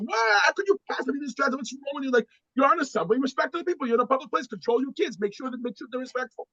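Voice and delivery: mock indignant lecture at a stranger; berating passenger. Angry passenger berating father.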